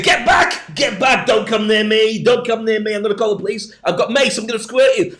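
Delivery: high, loud panicked screaming at a stranger; panicked shouting. Retold or imitated. Southerner at the bus stop yells at a smiling stranger, panicked and shrill. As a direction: shriek at him to keep away, terrified.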